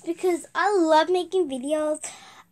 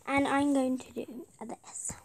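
whisper; 3 semitones lower, 5 dB quieter than usual. Real, not acted. Whispering while making icon.

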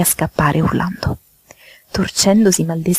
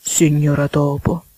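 slow toad calling his hostess; slow, deliberate toad address; toad character voice; 2 semitones lower, slower than usual. Acted. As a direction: draw the name out as the toad. Voices Mr. Jackson.

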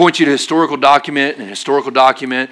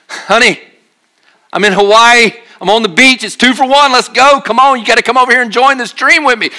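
higher, eager call to wife; beckoning wife into the dream, higher; excited dream invite; 7 semitones higher than usual. Pretend.

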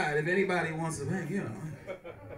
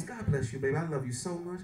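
low, soft mock tenderness; imitated loving mother; 6 semitones lower, 4 dB quieter than usual. Mother thanks son for paying bills, soft affection. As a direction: gently bless your child, lightly acted.

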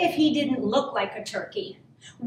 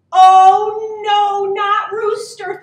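loud, high cry of dread; alarmed turkey; 6 semitones higher, 11 dB louder, much slower than usual. A narrator's reading. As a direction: cry out slowly in storybook panic. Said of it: "thought Turkey".

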